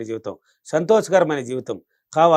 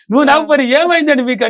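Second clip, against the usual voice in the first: wife asking, quoted; 8 semitones higher, 4 dB louder than usual. Pretend. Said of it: "అంటే".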